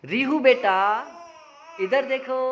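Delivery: high, loud call for her attention; calling out to the baby. Shown as a demonstration. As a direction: call her name so she looks over. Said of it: "ऐसे करो". (बच्ची को ऊँची आवाज़ में पुकारना)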